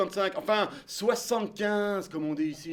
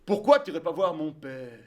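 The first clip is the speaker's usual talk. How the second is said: voix grave et posée de vieil homme; un vieux monsieur bonhomme, grave et lent; voix de Bertrand; 5 semitones lower than usual. Retold or imitated. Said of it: "il me dit". (imitation de Bertrand, voix grave et basse)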